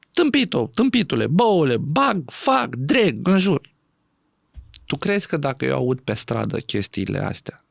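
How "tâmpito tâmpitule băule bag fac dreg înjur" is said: acted insults. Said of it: "povestea de ceartă".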